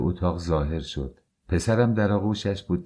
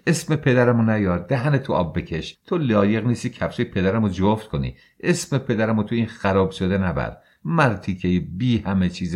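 furious tirade; 2 semitones higher than usual. Acted. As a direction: lash out at her husband. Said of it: "به طرفم پرید". (wife defends her father, furious shouting)

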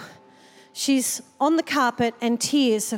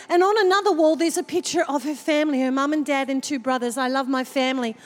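lightly voiced child; faster than usual. Girl describing the family picture, lightly childlike. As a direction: lightly voice the girl going on, a touch quicker. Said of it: "She said".

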